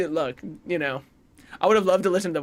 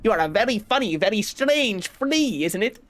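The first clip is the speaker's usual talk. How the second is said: a friendly flea teasing the stranger; fake European accent; 2 semitones higher than usual. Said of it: "if you thought that accent was racist".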